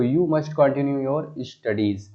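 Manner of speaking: the corrected sentence read slowly; slow dictation of the corrected version. Shown as a demonstration. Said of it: "okay, तो".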